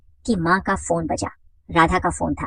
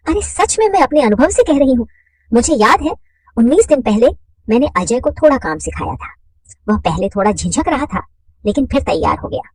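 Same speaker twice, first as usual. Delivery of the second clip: higher and louder, boasting; eager woman's voice; 4 semitones higher, 5 dB louder than usual. Acted. Mother eagerly boasting to Radha, higher and louder. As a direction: push it out eagerly, up high.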